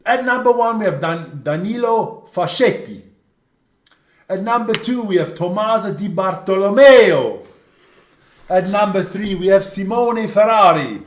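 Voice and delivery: lineup announced with Italian-accented names; best Italian accent. Shown as a demonstration. Host reading the front row to viewers, hammed-up Italian accent. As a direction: draw out each player's name in a playful Italian accent. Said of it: "go through that one with your best Italian accent".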